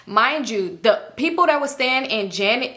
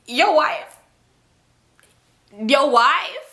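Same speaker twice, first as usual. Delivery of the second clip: put-on Young Boy; 3 semitones higher, slower than usual. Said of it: "How Young Boy said it".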